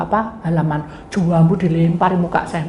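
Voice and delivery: ordinary talk, nothing marked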